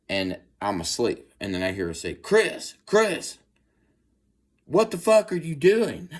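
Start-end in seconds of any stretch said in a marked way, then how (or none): 2.1-6.1 imitating Natalie yelling. Girlfriend catching him peeing, mock high-pitched yell. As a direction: squeal her alarm in a high pitch.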